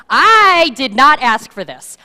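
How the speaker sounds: grieving mother yelling at the prophet, angry; angry woman. Acted. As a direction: lash out at the prophet. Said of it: "She's angry".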